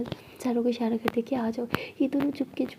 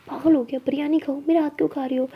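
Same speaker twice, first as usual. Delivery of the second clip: louder, higher scolding at a nipped finger; annoyed yelp; 3 semitones higher, 5 dB louder than usual. Acted. Jaya scolds Sara for biting her finger, loud and annoyed.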